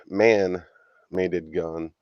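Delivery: man-made gun, very slow and separated; slow deliberate phrase. Shown as a demonstration. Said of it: "instead of saying".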